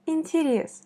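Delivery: Интерес with the last syllable leaned on; stress on the last E. Shown as a demonstration. Teacher showing learners the stressed last vowel. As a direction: land on the -рес of Интерес. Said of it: "c'est la dernière voyelle Y qui est accentuée".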